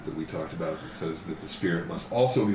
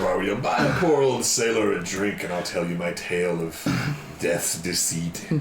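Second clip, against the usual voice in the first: lightly voiced old sailor, slowing at the end; old sailor storyteller; slower than usual. Revived player asking for a drink, lightly acted old sailor's yarn. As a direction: spin a tavern tale, drawing out the last words.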